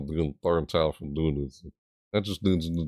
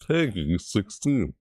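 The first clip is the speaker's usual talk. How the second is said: slow rating announcer; slower than usual. Retold or imitated. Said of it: "They're like".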